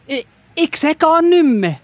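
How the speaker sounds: a man who just lost his sight; panicked. Acted. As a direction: Saulus realising he is blind, frightened. Suddenly blind on the road.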